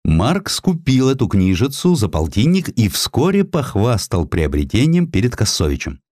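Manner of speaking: ordinary delivery, nothing marked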